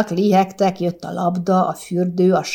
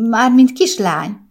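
trembling voice; 4 semitones higher, 6 dB louder than usual. A narrator's reading. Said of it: "remegő hangon hozzátette".

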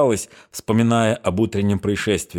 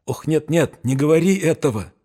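frightened; 7 semitones higher than usual. A narrator's reading. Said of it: "испуганно зашептала Олеся".

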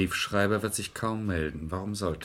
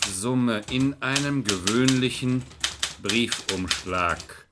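slow dictation; 2 semitones higher, slower than usual. Acted. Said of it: "Bin ich zu schnell?".

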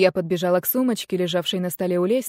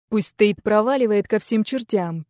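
growling. Acted. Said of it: "зарычав".

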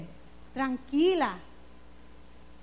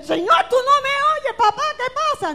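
higher, whiny imitation of a desperate believer; mock desperate plea; 8 semitones higher, 6 dB louder than usual. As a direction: mimic someone kicking on the floor, half laughing. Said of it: "pataleando en el piso, a grito". (súplica desesperada en burla)

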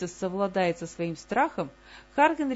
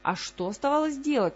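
higher, louder exasperated groan; 6 semitones higher, 3 dB louder than usual. A narrator's reading. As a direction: moan it out in frustration. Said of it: "простонала её подруга".

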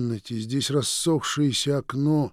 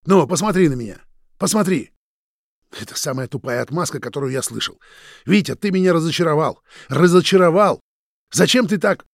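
high, loud hurt shout; angry disappointed yelling; 5 semitones higher, 8 dB louder than usual. A narrator's reading. Roman shouting his disappointment at Vitya, loud. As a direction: yell out the disappointment.

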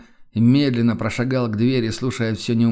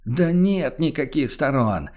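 decisive; 3 semitones higher, slower than usual. Acted. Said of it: "решительно отрезал торговец".

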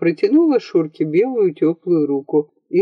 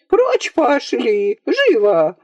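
angry nanny; 5 semitones higher, slower than usual. Acted. Nanny chasing boys out.

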